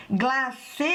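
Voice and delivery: "Glacê" called out with a long held "cê"; calling the word. Shown as a demonstration. Teacher calls the word to confirm the stressed syllable, calling out. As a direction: call out "Glacê", dragging the final vowel. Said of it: "Vamos chamar a palavra glacê".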